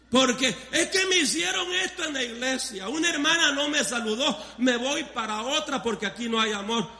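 a hint of a whiny church-hopper, amused; laughing while mimicking a petty member; lightly voiced sulky church member; mock complainer.

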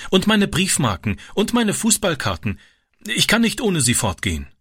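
put-on very high, desperate child's plea; protesting boy. A narrator's reading. Boy pleading with stepfather over his toys, very high. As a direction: beg to keep the treasures. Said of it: "protestierte Francis".

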